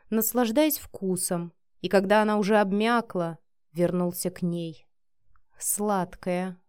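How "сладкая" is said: whisper. Acted. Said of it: "прошептал он".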